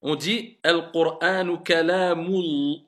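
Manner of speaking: Al-Qur'anu kalamul linked without a break, slow; liaison. Shown as a demonstration. Teacher demonstrating the linking, slow. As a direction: run Al-Qur'anu kalamul together.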